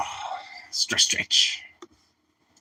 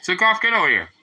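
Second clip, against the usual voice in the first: tag; 6 semitones higher, faster than usual. Real, not acted. Calling the dog over.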